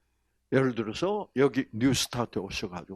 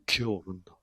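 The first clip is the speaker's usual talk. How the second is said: laughing repeat; 7 semitones lower, 7 dB quieter, faster than usual. Retold or imitated. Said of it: "경상도 남자들의 말은".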